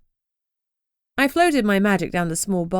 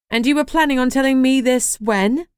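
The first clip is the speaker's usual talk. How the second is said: higher, louder, exasperated demand; annoyed; 6 semitones higher, 5 dB louder than usual. Acted. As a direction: huff it out, fed up. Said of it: "She huffed".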